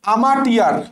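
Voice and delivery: আমাটিয়ার as ama-ti-ar, with a hard T; spelling pronunciation. Shown as a demonstration. Teacher sharing own memory trick, spelling pronunciation. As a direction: say আমাটিয়ার by its letters, no "ch" sound. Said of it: "আমি এভাবে পড়তাম".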